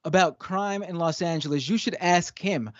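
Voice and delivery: a touch of Brooklyn accent, mock exasperated; slight Brooklyn accent. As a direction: argue indignantly in a half-baked Brooklyn accent. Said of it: "Chris Pratt trying to do a Brooklyn accent".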